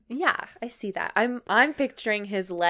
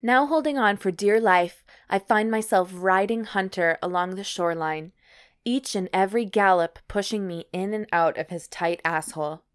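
measured, evenly paced read-aloud; story narration. Acted. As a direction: narrate it like an audiobook. Reads erotic story aloud.

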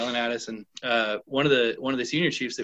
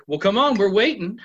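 impatient chief; 6 semitones higher, 5 dB louder than usual. Retold or imitated. Acted chief impatiently demanding a joke.

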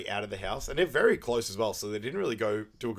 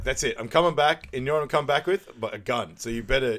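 angry threat; 2 semitones higher, 5 dB louder than usual. Retold or imitated. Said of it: "he's like".

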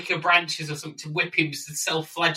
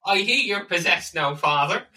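mock priest voice; 3 semitones higher than usual. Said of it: "he has to say".

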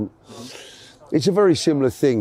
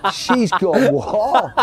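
laughing; 8 semitones higher, much slower than usual. Real, not acted. Laughing while retelling wife.

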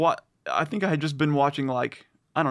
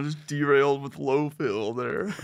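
muffled bass only; 4 dB louder than usual. Shown as a demonstration. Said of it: "a low, low pass filter on there".

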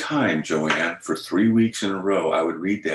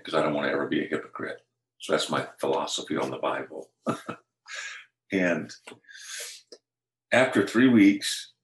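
normal talking voice

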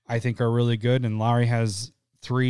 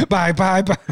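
sing-song bye; 7 semitones higher, 5 dB louder than usual. Retold or imitated. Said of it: "I was like".

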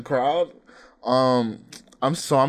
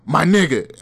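laughing confrontation; 3 semitones higher, 5 dB louder than usual. Retold or imitated. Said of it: "I just go".

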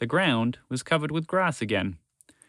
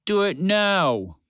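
loud, slow, high command; shouted order; 8 semitones higher, 4 dB louder, much slower than usual. Acted. The great Gonzalo urging his dragons on, loud and slow. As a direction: force the order out.

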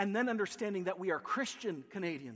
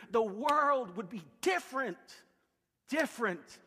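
pleading sermon, key words driven home; impassioned preaching; 3 semitones higher than usual. Acted. Pastor telling Canada it can change the world, impassioned preaching. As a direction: plead with the congregation, emphatically.

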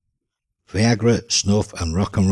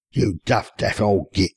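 relieved smile. Acted. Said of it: "smiled the relieved Steve".

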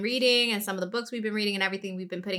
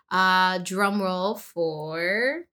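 drum roll build-up; 3 semitones lower, much slower than usual. Real, not acted. Drum roll before reveal.

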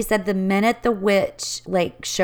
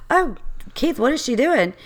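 higher, puzzled aside to Keith; retold alarm; 5 semitones higher than usual. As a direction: act out baffled alarm. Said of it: "I was like".

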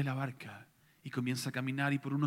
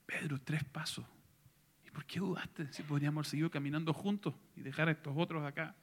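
playful tease; 2 semitones higher, 3 dB quieter than usual. Acted. Jesus teasing Peter playfully.

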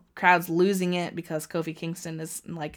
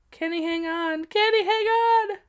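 anxious plea; 12 semitones higher than usual. Real, not acted. Kofi fighting to survive.

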